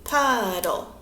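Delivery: "Puddle" stretched into two beats, pud-dle; syllable by syllable. Shown as a demonstration. Teacher clapping out syllables for children, "Puddle" in two drawn-out beats. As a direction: sound out "Puddle" slowly, one clap per syllable. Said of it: "We can clap it".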